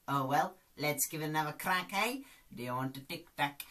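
quick put-on doctor patter; Doctor Bob impression. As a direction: rattle off the advice in character. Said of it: "Lee Nelson's character, Doctor Bob".

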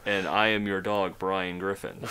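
flat monotone talking dog; deadpan monotone read; Brian Griffin monotone. Retold or imitated. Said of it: "you did it in monotone".

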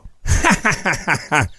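falling run of ha-ha laughter; acted hearty laugh. A man joking with his friend before leaving, laughing. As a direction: laugh it off in a descending string.

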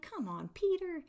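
high, exasperated mock scold; a mock exasperated scold, pitched high; annoyed rebuke. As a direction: play the impatient teacher. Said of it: "get mad at him and start being like".

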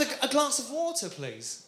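British "water" with a T; British-accented "glass of water"; British pronunciation. Acted. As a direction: repeat the order, "water" with a T and no final R. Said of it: "the soft D and T".

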